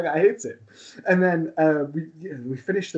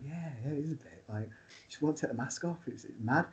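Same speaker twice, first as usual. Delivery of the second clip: hushed aside; 11 dB quieter than usual. Retold or imitated. Quiet backstage aside to partner.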